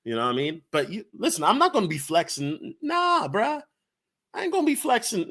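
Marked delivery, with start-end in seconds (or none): 2.8-5.3 mock tough voice. Playful mock street voice.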